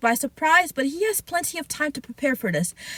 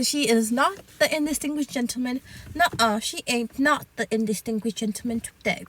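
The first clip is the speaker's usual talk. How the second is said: put-on babyish voice; 5 dB quieter than usual. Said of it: "I sometimes go into, like, a babyish voice".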